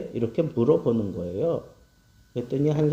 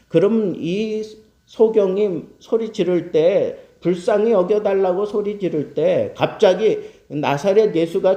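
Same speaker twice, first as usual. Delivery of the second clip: higher-pitched, insistent sermon delivery; emphatic preaching; 4 semitones higher, 4 dB louder than usual. Real, not acted. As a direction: press the rhetorical questions on the congregation. Preacher presses his argument. (높아진 음성으로 힘주어 설교)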